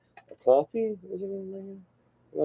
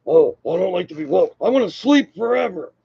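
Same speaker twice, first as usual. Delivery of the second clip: high, whiny-style mock complaint voice; mocking imitation; 5 semitones higher than usual. Vlogger parodying people who don't like to be woke, mocking high voice. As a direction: put on a high, swooping voice to ridicule.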